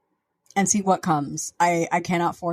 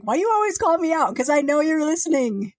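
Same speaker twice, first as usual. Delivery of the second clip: a playful high-pitched friend voice, much higher; mimicking a friend's teasing message; 10 semitones higher than usual. Host imitating the doctor calling her out for naming him, high mock voice. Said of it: "He did send me a message".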